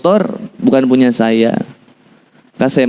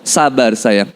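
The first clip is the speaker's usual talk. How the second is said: lower, composed reassurance; steadfast calm; 4 semitones lower, much slower than usual. Retold or imitated. Husband without money soothes his wife, calm. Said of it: "kokoh aja".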